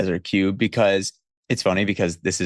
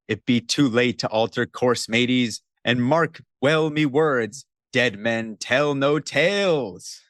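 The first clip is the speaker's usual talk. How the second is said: pirate narrator; 2 semitones higher than usual. Acted. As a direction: end slowly, like an ominous pirate host. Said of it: "That's the intro narration to the Pirates of the Caribbean ride".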